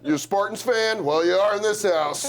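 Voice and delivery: laughing hammed-up dad voice; the dad to the boyfriend, hammed-up gruff; girlfriend's dad. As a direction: boss the guest around like a gruff father. Dad character rambling at boyfriend.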